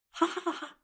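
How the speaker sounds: high, soft acted giggle; narrator's lightly voiced "ha ha" laughter. A narrator's reading. Yushu watches him flee the tent, high soft laugh. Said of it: "Yushu couldn't help but laugh".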